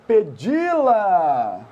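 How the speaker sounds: pedi-la stretched with a big pitch swoop; exaggerated, lingering "pedi-la"; drawn-out reading. Shown as a demonstration. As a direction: draw out "pedi-la" slowly, swinging up then down. Reading out a word he mocks.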